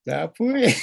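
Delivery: Tapwe said clearly with a falling end; teaching a word. Shown as a demonstration. Elder stressing Tapwe as the one key word. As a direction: model Tapwe for listeners to learn. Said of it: "that's a very important word".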